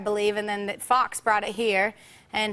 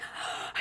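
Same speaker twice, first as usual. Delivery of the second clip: gasp; 13 dB quieter than usual. Retold or imitated. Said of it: "a quick panic attack".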